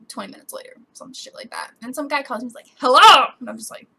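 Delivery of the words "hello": loud, punched greeting; mock cheery phone greeting; chipper support agent. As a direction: imitate an over-eager call-centre hello. Imitates the support caller's greeting.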